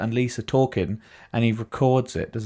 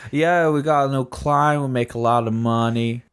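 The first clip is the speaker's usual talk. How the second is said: imitating Tommy's accent. To his friend, asked to do Tommy's accent. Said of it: "you're gonna have to do the accent for me".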